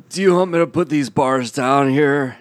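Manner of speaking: lightly voiced movie-star impression; a hint of Hollywood oddball; Nick Cage. Arriving laden with gold bars, in a Nick Cage impression. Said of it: "I'm Nick Cage".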